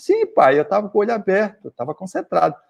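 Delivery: put-on high, quick little boy answering; a small son defending himself brightly; child's voice. Son answering father after prayer.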